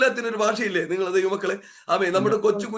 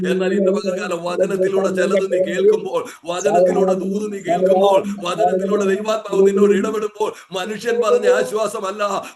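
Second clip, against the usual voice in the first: building preaching. Real, not acted. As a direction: build the promise to a climax. Building sermon climax.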